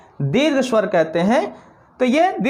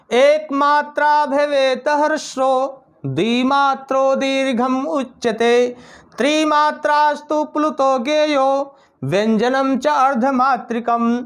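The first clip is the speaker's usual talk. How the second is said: slow, sustained verse chant on a level tone; shloka recitation. Shown as a demonstration. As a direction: chant the Sanskrit verse slowly, stretching the syllables.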